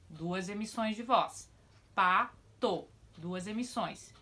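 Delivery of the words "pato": loud example word. Shown as a demonstration. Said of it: "Olha lá os exemplos".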